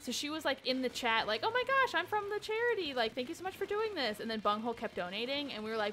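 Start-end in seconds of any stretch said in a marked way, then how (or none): 1.4-4.2 higher-pitched imitation of a thrilled fan; gushing thanks. Charity representative thanking streamers in chat, imitated gushing. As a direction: gush in a raised, imitated voice.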